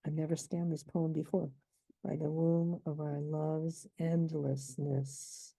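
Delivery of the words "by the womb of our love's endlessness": slow, each stress marked, "womb" strongest; deliberate metrical reading; scanning stresses. Shown as a demonstration. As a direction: read "By the womb of our love's endlessness" slowly, hitting womb. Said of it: "this is also sort of a cretic".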